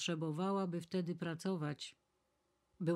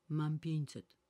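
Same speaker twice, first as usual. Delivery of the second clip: joyful cry; 4 dB louder, slower than usual. A narrator's reading. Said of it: "krzyknęła uradowana pani Maluach".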